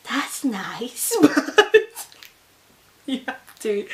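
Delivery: half laugh, half whimper the words; hammed-up weepy reply; mock tearful. Nurse replying, mimicked through mock tears.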